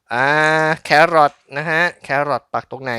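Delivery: ordinary talk, nothing marked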